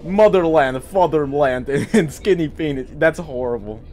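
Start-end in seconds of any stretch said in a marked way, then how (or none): 0.0-2.9 hammy Russian patriot; Russian accent. Acted. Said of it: "he's gonna be Russian now".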